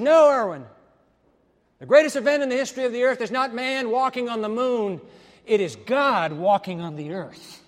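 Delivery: booming voice of God, loud and high; voice of the Lord. Retold or imitated. Preacher voicing God answering the astronaut, booming. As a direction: proclaim it like God correcting Irwin.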